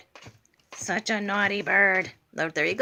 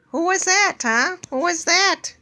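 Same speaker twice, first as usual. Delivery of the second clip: high, louder, playful questions to the bird; excited high pet talk; 9 semitones higher, 4 dB louder than usual. Real, not acted. Owner teasing her bird after a noise, high and excited.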